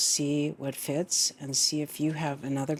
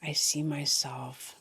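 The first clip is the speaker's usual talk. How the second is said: guided meditation. Real, not acted. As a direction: lead them gently into the breath, phrase by phrase.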